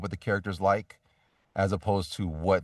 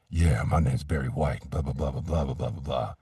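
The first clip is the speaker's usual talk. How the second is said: deep soul-singer voice; 6 semitones lower than usual. Retold or imitated. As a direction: take your time, sink the voice low and smooth. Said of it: "this thing called for a deep soul-singer kind of voice".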